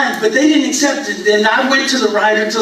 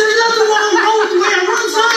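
mock defensive; 9 semitones higher, faster than usual. Defensive to son.

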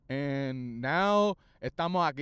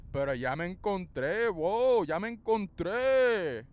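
put-on voice; 3 semitones higher, 3 dB louder than usual. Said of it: "creando una voz".

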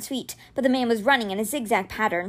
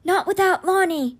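high-pitched, lightly strained refusal; rasped; 7 semitones higher than usual. A narrator's reading. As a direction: push out a voice still coming back. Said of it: "he rasped".

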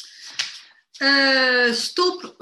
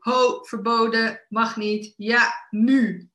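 mock referee barking rules, louder; man with whistle; 2 semitones higher, 4 dB louder, slower than usual. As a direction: lightly play a whistle-blowing rule enforcer. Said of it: "die man met dat fluitje".

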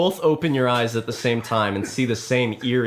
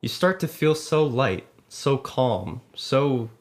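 guided meditation. Acted. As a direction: ease them into a calm trance. Narrator lulls players into trance.

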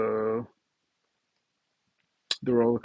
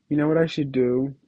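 ordinary talk, nothing marked

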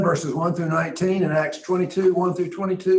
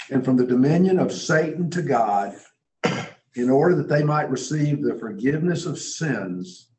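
solemn reading; 4 semitones lower than usual. Acted. Reading Jesus' commission to Paul.

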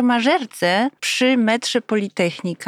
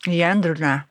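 chewing while talking; 4 semitones lower than usual. Real, not acted. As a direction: mouth full of herring. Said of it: "Zaczynamy od śledzi węgierskich".

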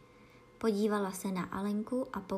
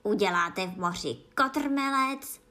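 squealing; 5 dB louder than usual. Acted. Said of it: "vřískala falešná želva".

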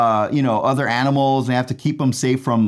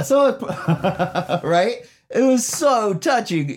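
laughing; 7 semitones higher, slower than usual. Real, not acted. Delighted by the backwards movie scene.

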